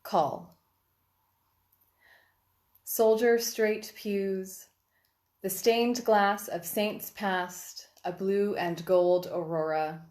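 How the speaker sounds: measured poem reading with deliberate pauses between lines; poetry reading. Acted. Poet reads to online listeners on World Poetry Day, measured recital. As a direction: recite it line by line, giving each image room.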